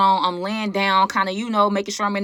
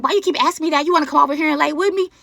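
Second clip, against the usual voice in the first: her forced voice; 7 semitones higher, faster than usual. Retold or imitated. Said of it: "She like".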